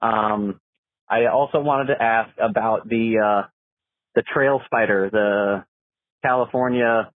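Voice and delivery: phone message playback; recorded caller on the line; voicemail. Real, not acted. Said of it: "let's see what the caller has to say".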